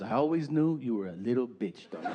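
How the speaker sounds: lightly mocking Peruvian mom, half laughing; Peruvian accent. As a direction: mom insults her son with a smirk. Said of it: "she's from South America, Peru".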